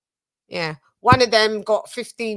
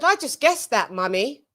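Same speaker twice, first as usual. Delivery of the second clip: put-on child's voice; 5 semitones higher than usual. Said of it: "She said".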